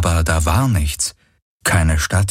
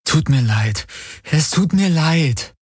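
soothing apology, rising higher on the repeat; gentle apology; 8 semitones higher, slower than usual. A narrator's reading. She soothes frightened Uru, apologising gently. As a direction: apologise tenderly, drawing out the repeat. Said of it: "schnell und so sanft sie konnte".

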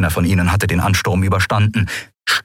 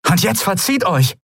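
commanding; 12 semitones higher than usual. Acted. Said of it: "befahl Endriel".

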